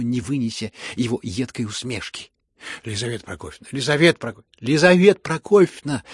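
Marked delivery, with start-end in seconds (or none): 2.8-6.0 calls growing louder and higher each time; rising outcry. Acted. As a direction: plead with her, building to a shout. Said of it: "послышалось разом со всех сторон". (нарастающий возглас, всё громче)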